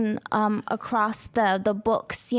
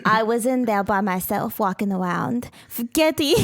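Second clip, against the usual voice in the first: lightly voiced Russian accent. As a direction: tell it in a faint Russian accent. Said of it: "where's your voice going?".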